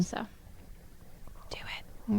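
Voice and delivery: breathy whispered nudge. Real, not acted. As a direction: whisper it like a secret. Urging a friend, quietly playful.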